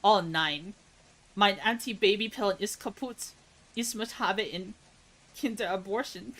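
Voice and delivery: mock German accent. Shown as a demonstration. Streamer who says they can't do it, German accent. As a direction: put on a joking German accent. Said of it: "how to do a German accent".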